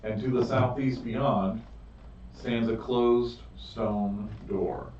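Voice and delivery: slow, measured narration with drawn-out key words; game master's scene setting. Acted. Game master describing the chamber and visions to players, scene-setting narration. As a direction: set the scene deliberately, phrase by phrase.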